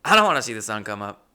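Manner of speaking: eager agreement. Retold or imitated. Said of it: "I'm like".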